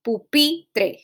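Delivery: "Pupitre" in separate syllables, PI stressed; teacher demonstrating "Pupitre" with stressed PI. Shown as a demonstration. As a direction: say "Pupitre" syllable by syllable, leaning on the middle PI. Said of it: "that's where you're going to put the accent".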